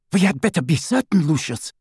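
cool, clipped-free measured warning to her husband, quick; icy and clear, keep control; cold clear voice. A narrator's reading. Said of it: "in her cold, clear voice".

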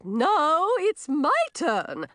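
loud, high, drawn-out protest; insistent swamp fairy. A narrator's reading. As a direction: butt in and claim your go.

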